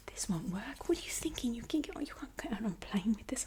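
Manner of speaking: put-on whispered Italian accent, agent scolding; mock Italian gate agent, light Italian accent. Airline agent scolding her, in an Italian accent. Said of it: "gotta change to the Italian accent".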